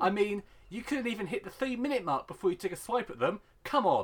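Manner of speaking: ordinary talk, nothing marked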